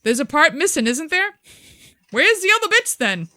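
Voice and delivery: high mock English heckle; mock English bloke. English men ribbing a unicyclist, mock English jeer.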